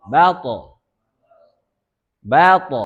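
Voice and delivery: to with tongue on upper teeth; sukun demo. Shown as a demonstration. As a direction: say Bato with a firm t. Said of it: "Seperti itu". (contoh: Bato)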